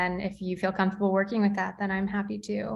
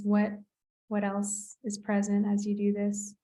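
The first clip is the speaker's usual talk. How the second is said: guided meditation. Acted. Therapist guides body awareness.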